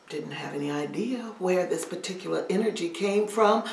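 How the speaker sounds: ordinary delivery, nothing marked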